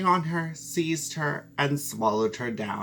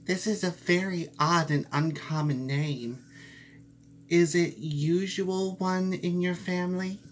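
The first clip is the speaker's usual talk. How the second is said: lightly raised mouse voice asking; mouse, curious; 5 semitones higher than usual. Acted. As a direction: mouse asks the cat about the name, curious.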